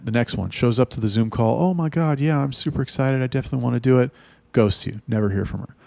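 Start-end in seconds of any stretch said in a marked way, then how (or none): 1.6-4.1 higher, gushing fake-excited recruit; mock eager girl. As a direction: parody an overeager girl promising everything.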